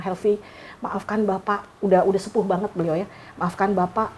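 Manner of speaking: gently imitating a weeping elderly teacher; tearful apology. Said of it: "beliau menangis".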